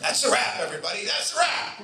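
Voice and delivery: calling out. Retold or imitated. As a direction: announce it to the whole set. Director calls wrap.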